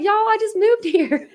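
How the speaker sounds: high, slow, hammed-up Southern accent; mock Southern accent. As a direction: drawl it out like a Southern newcomer. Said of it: "that girl's Southern".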